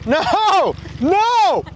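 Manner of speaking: loud, high cry of dismay; panicked shout. Real, not acted. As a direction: yell no as food spills. Fries spilling in the car.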